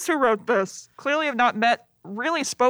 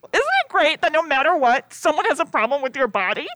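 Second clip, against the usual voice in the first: sarcastic; 3 semitones higher, 3 dB louder than usual. Real, not acted. Sarcastic remark.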